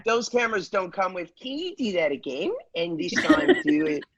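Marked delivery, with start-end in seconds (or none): 1.4-4.0 imitating Megan's Australian accent. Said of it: "You nailed that accent, Josh".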